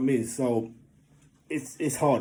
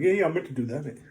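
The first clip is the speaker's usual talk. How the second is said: mock bravado; 3 semitones higher, faster than usual. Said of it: "normal guy thing".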